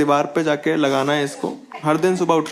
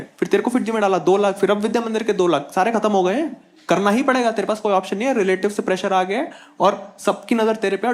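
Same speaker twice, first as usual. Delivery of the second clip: lightly voiced scolding mother, higher; a hint of a fussing mom, pitched up; mom's voice; 5 semitones higher than usual. Mom scolding son over marker on the wall, higher voice. Mom lecturing about money, pressure.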